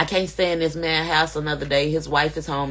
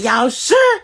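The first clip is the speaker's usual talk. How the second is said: high, louder y'all sure; retelling her worried check, pitched up; doubting question; 7 semitones higher, 6 dB louder than usual. Retold or imitated. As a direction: press them, voice up. Pressing police over the phone.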